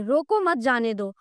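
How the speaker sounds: "रोको मत जाने दो" run together without a break; no pause. Shown as a demonstration. Teacher reads an unclear sentence to pupils, "रोको मत जाने दो" with no pause. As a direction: read "रोको मत जाने दो" as one unpunctuated phrase. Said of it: "पहले वाक्य में ये बोध नहीं होता".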